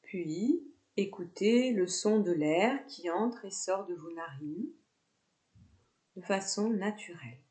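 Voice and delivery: calm yoga nidra guidance with long pauses; guided meditation. Real, not acted. Yoga teacher guiding students lying down with eyes closed, guided meditation. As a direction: lead them into relaxation, phrase by unhurried phrase.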